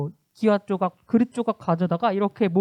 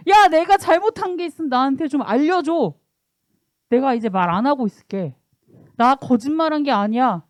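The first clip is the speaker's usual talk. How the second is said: angry reply; 3 semitones higher than usual. Retold or imitated. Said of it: "욥이 화가 나가지고".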